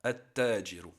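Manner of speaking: "At-tajiru" with silent L and doubled T; lam assimilated. Shown as a demonstration. Teacher showing how it is pronounced, doubled T in "At-tajiru". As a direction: say "At-tajiru", holding the T in place of the L. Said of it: "qu'on va prononcer comme ceci".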